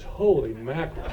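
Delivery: low, spent, still puffing; out of breath. Acted. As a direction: sigh it out, winded and relieved. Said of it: "The young man is puffing".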